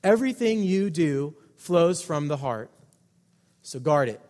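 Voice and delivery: "Everything" hit hard, falling to "guard it"; deliberate emphasis. Shown as a demonstration. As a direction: lean on "Everything", then land "guard it" firmly. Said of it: "where I'm choosing to put the emphasis".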